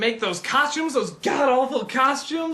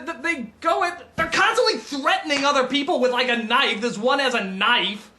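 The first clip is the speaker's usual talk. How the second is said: ordinary delivery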